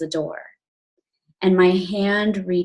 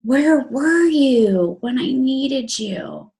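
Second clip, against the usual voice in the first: slow pleading; 5 semitones higher, slower than usual. Retold or imitated. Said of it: "And I'm saying".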